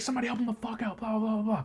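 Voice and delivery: high, softened imitation of a cry for help; high retold plea tumbling into blahs; mock panicked yelling. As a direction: act out frantic hollering, pitch up and volume down. Retelling his panicked calls for help.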